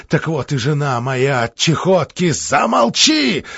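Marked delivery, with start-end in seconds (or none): 2.3-3.4 high, slow, raging snarl; furious rasp. Acted. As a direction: choke out the order in fury. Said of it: "В бешенстве прохрипел Орлов".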